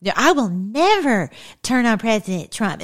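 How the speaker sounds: sing-song mock of a false promise; mocking imitation. Mocking the senator's loyalty pledge, lightly imitated. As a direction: lightly parody her pious vow. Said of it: "there's always this".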